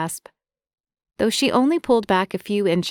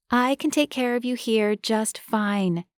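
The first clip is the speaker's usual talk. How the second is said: softened tone; 4 semitones higher than usual. Acted. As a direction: say it gently, softening. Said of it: "Marie softened her tone".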